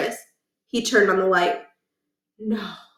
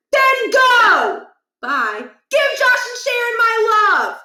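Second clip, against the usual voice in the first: put-on high, loud old-man voice, half laughing at the fool; mock the sleeping son; cranky old father lecturing; 13 semitones higher, 5 dB louder, slower than usual. Scene: father scolds son for sleeping in, cranky lecture.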